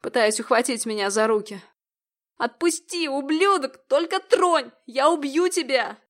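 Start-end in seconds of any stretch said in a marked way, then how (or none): 2.4-6.0 high, frantic yell; desperate scream. A narrator's reading. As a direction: shriek it while fighting him off. Victim screaming at attacker.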